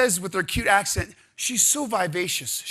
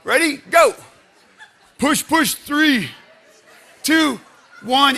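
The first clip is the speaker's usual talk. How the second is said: loud, higher urging count; shouted coaching; 5 semitones higher, 8 dB louder, slower than usual. Real, not acted. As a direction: fire them up to push. Coach urging a timed hold.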